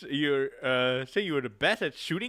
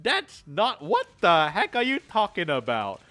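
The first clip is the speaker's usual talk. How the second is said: loud, higher protest; mock indignant; 5 semitones higher, 3 dB louder, slower than usual. Real, not acted. Player denying the awkward eye contact, mock indignant. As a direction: deny it in mock outrage.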